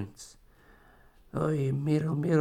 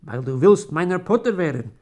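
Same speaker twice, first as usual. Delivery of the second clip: louder, cutting in; interrupting; 3 semitones higher, 5 dB louder than usual. Acted. Wife cuts into her dying husband's words, louder. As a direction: break into his speech. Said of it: "fällt er ein Mirel in die Rede".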